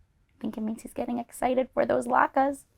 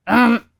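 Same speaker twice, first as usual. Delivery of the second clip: bear growl; 2 semitones higher, 8 dB louder than usual. Acted. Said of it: "growled Old Bear".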